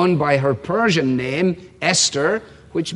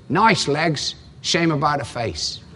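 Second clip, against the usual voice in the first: put-on Cockney accent; 3 semitones lower, 3 dB quieter than usual. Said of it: "you have to do it in a Cockney accent".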